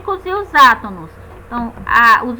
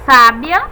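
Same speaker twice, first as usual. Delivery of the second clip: Sábia com SÁ forte e alto; tônica em SÁbia; 8 dB louder than usual. Shown as a demonstration. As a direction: bata forte na primeira sílaba, SÁbia. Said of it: "temos a sílaba tônica sa". (SÁbia, primeira sílaba bem marcada)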